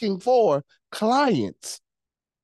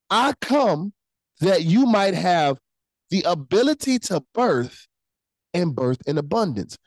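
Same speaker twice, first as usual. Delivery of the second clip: slow and spaced, one phrase at a time; slow reading. Shown as a demonstration. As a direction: lay each phrase down slowly. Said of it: "I'm going slowly".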